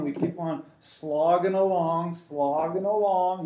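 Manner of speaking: slow, drawn-out slogging; plodding complaint. Acted. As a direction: drag out each word like a long trudge. Voicing weary complaint about slow progress.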